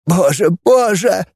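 slow, high moan of despair. A narrator's reading. Grigoryan moans, clutching his cheeks in despair. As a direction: drag out each «боже» in anguish. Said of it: "стонал Григорян".

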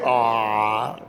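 long, low mock "aah"; imitated listeners' "ah". Pastor imitating people hearing the story, long low "ah". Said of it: "mucha gente escucha esta historia dice".

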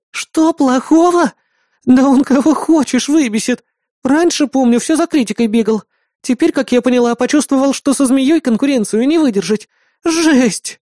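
put-on high, heated girlish rant; a bratty young woman venting; indignant girl Bismarck. Бисмарк ругает Колыбалова. (возмущённая девчонка, высоким голосом)

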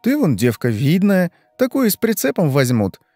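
a hint of a knowing friend giving advice; lightly voiced friend, sighing then chatty; chatty blonde friend. Yulka advising, higher.

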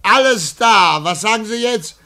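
talking high through giggles; can barely contain the joke; delighted, laughing voice; gleeful laughter. Acted. Gleeful news to secretary.

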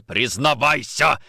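slow, drawn-out angry order; angry demand. Acted. Nikitin choking Orlov to confess, angry demand. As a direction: stretch the command out forcefully.

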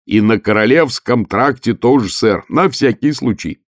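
mild shout over the wind; крик сквозь ветер. Acted. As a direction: call back over the wind, lightly. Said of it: "крикнул в ответ Муркоу". (слегка кричит в ответ сквозь ветер)

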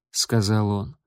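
ordinary delivery

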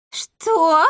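high startled "Что?"; stunned echo. A narrator's reading. Matchmaker echoes the wife in shock, high. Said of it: "вторила ей сваха".

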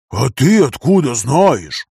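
slow, puzzled question; a touch of mild surprise; surprised. A narrator's reading. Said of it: "удивился Вася".

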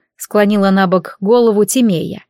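plain reading voice

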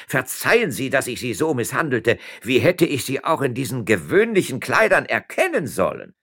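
high, urgent begging; flustered, beseeching apology; pleading apology. A narrator's reading. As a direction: excuse yourself abjectly to a superior. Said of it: "in die Knie sinkend ein".

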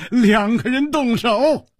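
high, slow teasing echo; teasing, relishing the comeback; amused retort. A narrator's reading. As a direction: throw his words back, high and drawn out. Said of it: "楚留香笑着说".

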